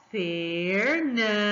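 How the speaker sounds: Fernanda very slowly, long swelling NAN; slow syllabled Fernanda with a drawn-out, stronger middle; stress on middle syllable. Shown as a demonstration. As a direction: stretch Fernanda out, raising the voice on NAN. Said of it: "Tá vendo como eu levanto a minha voz?".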